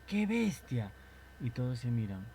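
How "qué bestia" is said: high exclaimed cry; classmate's exclamation. Shown as a demonstration. Classmate calls out Qué bestia, high and exclaimed. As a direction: blurt it out like a startled classmate. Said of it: "tu compañero dice".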